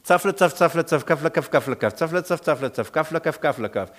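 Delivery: long even run of nonsense syllables; monotonous rhythmic gibberish; incomprehensible foreign babble. Acted. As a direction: imitate unknown tongues as meaningless patter. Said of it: "und sie hören".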